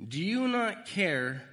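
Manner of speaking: loud, drawn-out reading of the disciples' cry; pleading scripture read. Acted. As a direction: stretch the plea out, loud. The verse's plea, drawn out.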